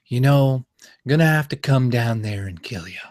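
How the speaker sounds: lightly voiced menacing film-star impression; understated American actor impersonation; Jack Nicholson. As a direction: deliver the threat casually, in character. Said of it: "that's how he talks".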